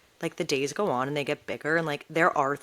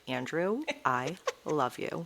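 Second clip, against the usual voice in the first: softer, slow mock-sincere declaration; tender retold affection; 7 dB quieter, slower than usual. Telling Andrew she loves him for hashtagging posts, tender. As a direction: say it softly and slowly, with affection.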